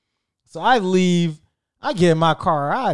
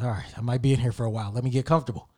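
softer, resigned to wait; resigned inner voice; 6 semitones lower, 6 dB quieter, faster than usual. Retold or imitated. Hiding in the closet, resigned and softer. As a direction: settle in, muttering to yourself.

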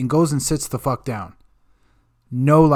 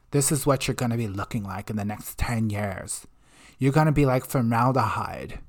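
quiet, lower, lecturing mock voice; preachy health nag; 3 semitones lower, 5 dB quieter than usual. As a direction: nag them softly like a diet guru.

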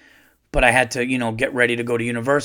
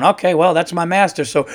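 lightly voiced dog, a bit higher and louder; dog talking; 4 semitones higher, 5 dB louder than usual. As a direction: play the dog obeying its master, half-joking. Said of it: "and the dog going".

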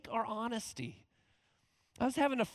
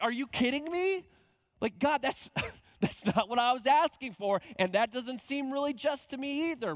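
higher, louder disbelief with a laugh; incredulous protest; 6 semitones higher, 5 dB louder than usual. Retold or imitated. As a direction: protest to God, half laughing. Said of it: "and Habakkuk's like".

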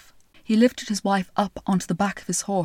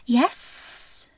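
snake whisper; 4 semitones higher than usual. Acted. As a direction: breathe it out coyly. Snake answers softly.

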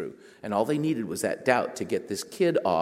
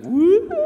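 whoop of a military spin; 11 dB louder than usual. Retold or imitated. Sound of military turn.

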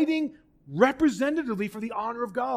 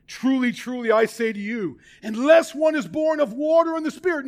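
forceful, raised and higher on unless; strong response; 5 semitones higher, 4 dB louder than usual. Retold or imitated. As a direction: hit back hard with authority. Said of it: "He responds strongly".

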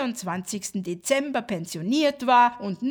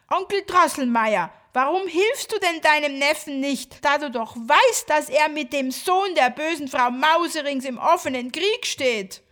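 eager pleading; 3 semitones higher, 5 dB louder than usual. Acted. Marie asks godfather urgently.

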